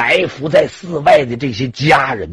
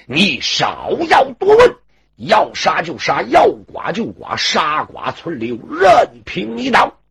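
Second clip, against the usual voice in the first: slow, deliberate defiance; defiant. Acted. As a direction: spit out each phrase slowly. Defiant captive refuses to talk.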